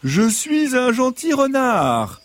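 high, slow, sweet fox voice; gentle fox voice. Acted. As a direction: play the innocent friendly fox. Fox insists he is kind.

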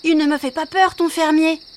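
boastful little wolf; proud. Acted. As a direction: puff up the chest and brag. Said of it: "répondit fièrement".

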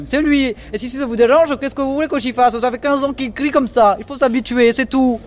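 defensive and cross; annoyed. Acted. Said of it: "tout à coup mécontent".

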